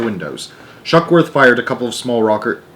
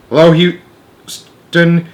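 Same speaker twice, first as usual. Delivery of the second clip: slow, loud, higher call into the radio; cried into the mic; 6 semitones higher, 6 dB louder, much slower than usual. Acted. Shuckworth radios ground control, crying out slowly. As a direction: call out to Houston urgently. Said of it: "he cried into the mic".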